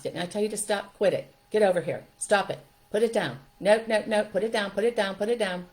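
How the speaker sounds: put-on loud, repeated harsh orders to a toddler; scolding mom. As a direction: yell the commands over and over.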